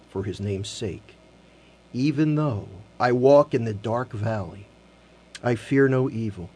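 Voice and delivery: slow scripture reading. Acted. Host reading the psalm slowly to radio listeners, reverent. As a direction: let each line sink in, pausing between.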